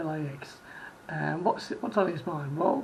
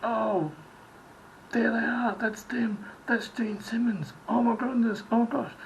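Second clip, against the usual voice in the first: starstruck fan; 5 semitones higher than usual. Retold or imitated. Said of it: "and just be like".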